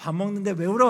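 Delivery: loud, scolding tone. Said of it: "하면서 막 혼내다가".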